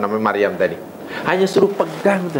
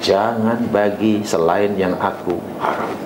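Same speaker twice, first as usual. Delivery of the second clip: pleading prayer; 7 semitones lower than usual. Retold or imitated. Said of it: "Lalu kita pastikan".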